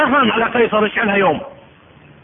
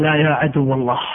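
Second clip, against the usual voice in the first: defiant captive; 7 semitones lower than usual. Acted. Captive defies Caesar.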